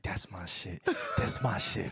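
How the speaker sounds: low, hushed murmur; imitated whisper. Imagining her during the perfect sex song, low whispering. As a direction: drop it way down, as her secret whisper. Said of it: "She's whispering".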